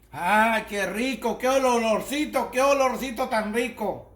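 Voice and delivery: slow, drawn-out relish at the aroma; real mouth-watering appreciation; savoring delight. Real, not acted. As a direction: linger blissfully on each exclamation. Smelling the finished dish with delight.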